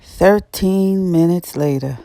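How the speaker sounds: slow, drawn-out announcer read; title card voice. A narrator's reading. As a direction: announce the time jump slowly. Title card narration, slowed.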